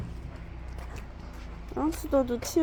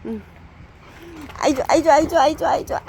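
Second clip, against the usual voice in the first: high, bouncy cheering chant; excited cheering; 5 semitones higher, 5 dB quieter, faster than usual. Real, not acted. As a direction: cheer the dogs on happily. Cheering along with playing dogs.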